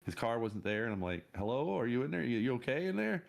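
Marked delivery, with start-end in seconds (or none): 1.4-3.2 raised, questioning retold call; acting out a check through the door; mildly concerned call into a room; tentative calling out.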